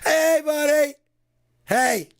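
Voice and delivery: very high, loud thrilled shouts; reuniting with a friend, screaming with joy; overjoyed greeting. Shown as a demonstration. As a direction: greet him like a long-lost buddy. Mock-joyful friend greetings.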